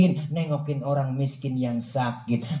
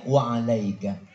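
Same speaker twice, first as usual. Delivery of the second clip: calm reply; 3 semitones lower than usual. Acted. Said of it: "balikin aja".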